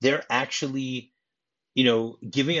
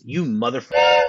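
a much louder hammed-up yell of the curse; mock scream; 8 dB louder than usual. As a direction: shove the insult out like a scream.

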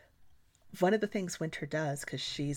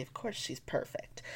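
sarcastic; 5 dB quieter than usual. Real, not acted. Sarcastic aside.

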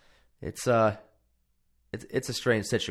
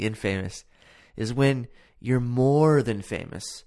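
movie quote; slower than usual. Retold or imitated. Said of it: "That Three Amigos quote".

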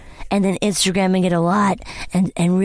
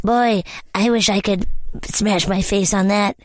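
voicing a commenter. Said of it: "what are these comments like".

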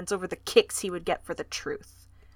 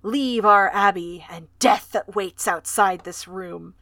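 haunting voice; 3 semitones lower, 4 dB louder than usual. Acted. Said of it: "the ghostly voice".

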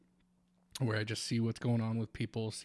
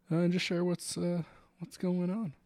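cracking, strained voice; voice giving out; 8 semitones higher, 4 dB louder than usual. Real, not acted. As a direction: voice breaking up. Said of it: "my voice is cracking".

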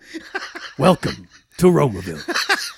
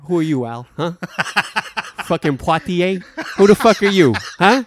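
mock angry; 3 semitones higher than usual. Mock argument between actors.

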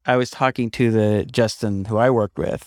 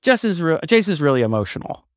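imitating Phil; 8 semitones higher than usual. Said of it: "and Phil goes".

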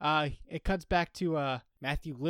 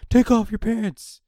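loud, high, slowed-down mock command; shouted order; 9 semitones higher, 11 dB louder, slower than usual. Host playing hazmat team to exposed colonel, shouted order. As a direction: shout it like an emergency crew.

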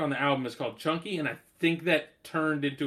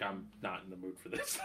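laughing; 8 semitones lower, 15 dB quieter than usual. Acted. Joking mock complaint, laughing.

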